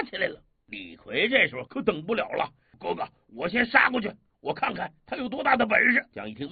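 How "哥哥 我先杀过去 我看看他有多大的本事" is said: eager shout. Acted. Li Kui eager to charge in.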